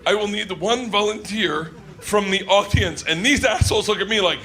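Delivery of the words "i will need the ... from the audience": put-on measured German-accented command; deliberate stage order in a German accent. German performer asks audience for volunteer, German accent. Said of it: "German woman".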